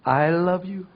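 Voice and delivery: slow, tender I love you; gentle, adoring I love you; loving look. Shown as a demonstration. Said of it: "사랑스러운 눈빛으로".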